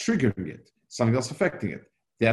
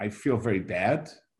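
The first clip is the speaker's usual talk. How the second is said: ordinary talk, nothing marked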